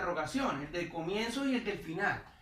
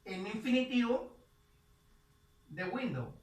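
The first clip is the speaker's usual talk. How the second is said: slow teacher read; 2 semitones higher, much slower than usual. Shown as a demonstration. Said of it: "Entonces sería".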